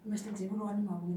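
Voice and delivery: name rattled off quickly; quick, run-together delivery; talking too fast. Real, not acted. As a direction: rush through "Mister Dzibulwani Mabunga". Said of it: "you're talking too fast".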